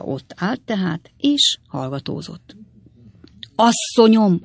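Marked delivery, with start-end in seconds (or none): 3.5-4.4 raised, higher call; loud, high-pitched shout to an old lady. A narrator's reading. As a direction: holler it out as the fat boy. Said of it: "ordította a hájas gyerek".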